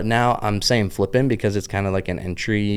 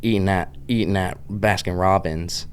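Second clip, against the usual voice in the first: Pittsburgh accent. Shown as a demonstration. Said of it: "my downtown Pittsburgh accent".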